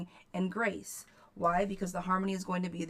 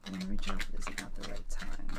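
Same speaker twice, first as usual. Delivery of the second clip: reading the client's question; 10 semitones lower than usual. Retold or imitated. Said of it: "Should I reach out to Al".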